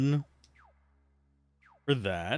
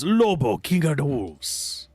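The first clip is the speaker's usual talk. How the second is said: put-on a sudden, light Jamaican accent, slower at the end; slower than usual. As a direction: slip briefly into a playful Jamaican accent. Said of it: "I just went Jamaican there".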